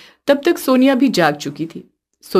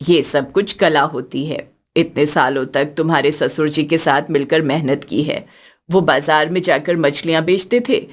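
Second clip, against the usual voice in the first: put-on lower, older mother-in-law voice, moved; a gentle older woman speaking from the heart; elderly mother-in-law; 6 semitones lower than usual. Mother-in-law watching her daughters-in-law from afar, lower older voice.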